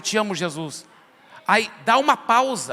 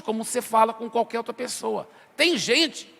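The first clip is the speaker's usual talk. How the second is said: ordinary talk, nothing marked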